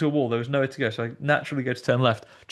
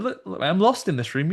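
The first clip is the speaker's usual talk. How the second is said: higher, pleading line; mock lost plea; 6 semitones higher than usual. Andy pleading with the scare actor, higher. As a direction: beg politely to be let out. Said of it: "had to go back to him and said".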